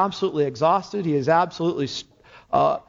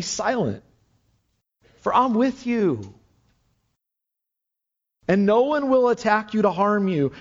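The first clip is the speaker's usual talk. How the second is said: higher, gentle reading of a promise; tender reassurance; 4 semitones higher than usual. Acted. The Lord encouraging Paul in the night, tenderly.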